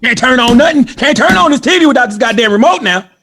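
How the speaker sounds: high, hammed-up country man; comic high-pitched country fussing; country accent. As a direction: scold in a put-on country accent. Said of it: "Why is it always go to a country accent".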